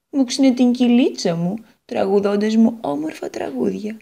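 put-on the guitar longing for her lost young man; a hint of a nostalgic guitar; Guitar character voice. Guitar remembers her lover.

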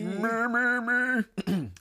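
high, sung warm-up syllables; vocal warm-up. Shown as a demonstration. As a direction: warm up the voice like a singer. Vocal warm-up after drinking water.

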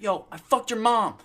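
loud, high, drawn-out taunt; mock trash talk. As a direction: holler it slowly as a gamer's taunt. Acts out lobby trash talk.

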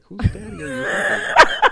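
squeaky high mock question; shrill laughing mock quote. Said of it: "I was like".

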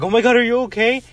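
high, loud and fast, mock panicked; alarmed cry. Family shrieking at her burned leg, alarmed and fast. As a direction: shriek it out like a startled relative.

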